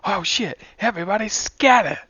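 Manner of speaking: put-on high, loud old-time mobster shout; thirties transatlantic voice. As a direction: yell it like a 1930s movie crook. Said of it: "Can you do it again?".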